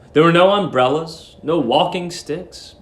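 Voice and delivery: ordinary delivery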